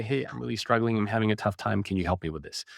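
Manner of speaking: vulnerable plea. Shown as a demonstration. Showing how to ask somebody for help, vulnerable. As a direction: admit a struggle and gently ask. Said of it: "because tone can make a big difference".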